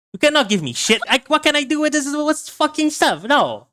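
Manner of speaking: hammed-up New York mafia accent; mafioso New York accent. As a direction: play a New York mafioso shouting at Tony. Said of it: "I can go with a classic".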